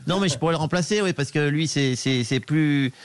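lightly voiced skater, chatty and laughing; a hint of the skater rambling cheerfully; Philippe Candeloro impression. Impressionist as the skater complaining to the radio host, laughing through it. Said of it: "Philippe Candeloro".

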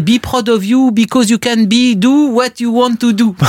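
François Hollande. Retold or imitated. Historian mocks Hollande's English blunders, in clumsy French-accented English. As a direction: recite botched English as a French politician would. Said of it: "ses boulettes en anglais, c'est, c'est François Hollande".

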